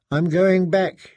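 slow, slightly slurred words; tipsy. Acted. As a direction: drag it out like she's had a drink. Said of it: "You've been drinking".

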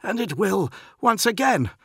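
very high, defiant reply; insistent retort. A narrator's reading. Postulant answers back to his captain, insistent. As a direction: answer back boldly, pitched right up.

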